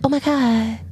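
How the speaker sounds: quick mimicking fangirl chatter; excitable fangirl. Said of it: "They'd be real excitable".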